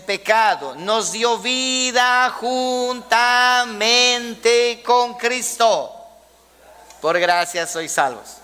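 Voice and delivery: slow, drawn-out Bible reading; emphatic scripture reading. Acted. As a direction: stretch the key words like a preacher reading verses. Reads the scripture passage aloud.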